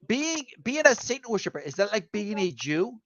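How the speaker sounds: put-on a light Arabic accent as the supervisor. Border supervisor puzzling over the speaker's religion, in a mock Arabic accent. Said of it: "literally what he said to me in an Arabic accent".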